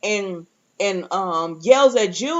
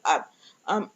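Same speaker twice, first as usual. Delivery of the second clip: halting, lost for words; retold stammer; 5 semitones lower, 3 dB quieter than usual. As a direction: imitate someone stammering, with a gap between sounds. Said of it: "she stammers back".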